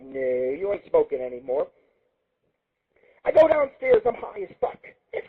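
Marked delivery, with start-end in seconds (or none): 0.0-1.7 lower, softer, slow refusal; firm refusal. Retold or imitated. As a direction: shut him down, slowly. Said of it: "I'm like".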